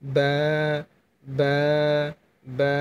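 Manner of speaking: বা released from the wet inner lips; Arabic letter demo. Shown as a demonstration. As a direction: separate crisp বা sounds. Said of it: "ভেজা অংশ লাগিয়ে রেখে বা হরফটি উচ্চারণ করবেন".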